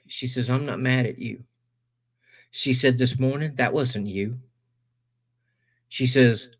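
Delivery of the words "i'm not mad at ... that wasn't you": soft, quiet, tender reassuring; gentle reassurance. Retold or imitated. Wife calmly reassuring her husband, soft and tender. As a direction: ease him in softly.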